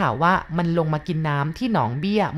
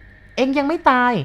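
high, slow, stunned exclamation; startled cry; 8 semitones higher, 4 dB louder, slower than usual. A narrator's reading. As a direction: gasp it out in disbelief, drawn out. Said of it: "เจ้าดั่นลุกพรวดพลาดขึ้น". (ตะโกนด้วยความตกใจ เสียงสูง ลากยาว)

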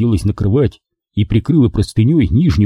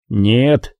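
icy voice. Acted. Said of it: "отрезал ледяным голосом Болон".

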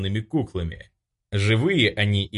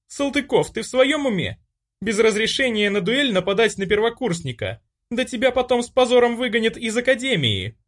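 much higher, loud indignant rebuke; outraged scolding; 14 semitones higher, 3 dB louder than usual. A narrator's reading. Olga scolds attacker.

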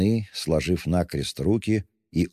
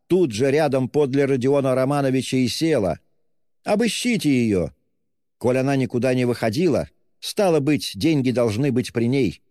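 scream, plead and threaten at once; hysterical tirade; 7 semitones higher than usual. Acted. Katerina rails at the landlady and Luzhin, high and frantic.

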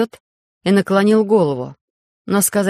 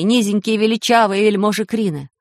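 ordinary delivery

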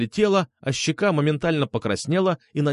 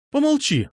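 high, curt order; cutting him off; 13 semitones higher than usual. A narrator's reading. Medusa silences Marat, cutting him off. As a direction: cut in high and commanding. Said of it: "оборвала его Медуза".

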